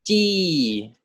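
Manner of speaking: "ji" rising; "ji" with a rising Thai tone; Thai tone two. Shown as a demonstration. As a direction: lift "ji" up at the end. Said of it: "This whole thing is pronounced as".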